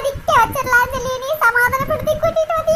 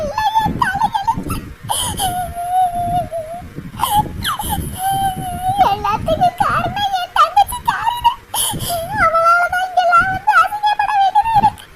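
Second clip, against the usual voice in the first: higher, crying through the words; tearful lament; 5 semitones higher than usual. Acted. Humiliated elder sister weeping about her sister, tearful lament. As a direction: sob out the blame on her sister.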